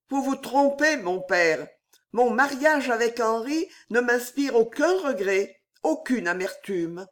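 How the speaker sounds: steady, firm, hiding every hesitation. Acted. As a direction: say it without a crack, sacrificing herself. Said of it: "d'une voix ferme". (voix ferme, sans hésitation)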